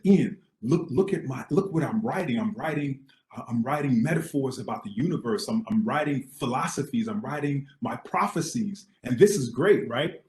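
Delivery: acting out an eager pitch to a roommate; lightly manic enthusiasm, re-enacted; excited retelling.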